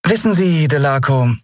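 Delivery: high, sweetly smiling address; disarming smile. A narrator's reading. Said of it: "sagte sie mit entwaffnendem Lächeln".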